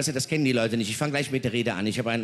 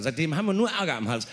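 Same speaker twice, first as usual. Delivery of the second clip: ordinary talk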